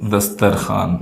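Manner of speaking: दस्तरखान with a plain long "khaa", no w; दस्तरखान, slow, "dastar-khaan"; silent waw. Shown as a demonstration. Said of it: "वाव की आवाज़ नहीं आती है".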